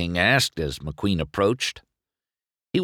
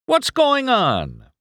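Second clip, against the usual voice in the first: high, slow, bewildered question; can't believe no one is watching; puzzled racer; confused; 14 semitones higher, 4 dB louder, slower than usual. A narrator's reading. Chick confused, nobody cheering.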